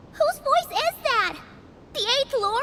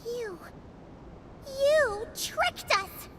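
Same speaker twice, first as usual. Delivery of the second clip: stunned quiet disbelief; 3 semitones lower, 6 dB quieter, much slower than usual. Acted. Realizing the betrayal.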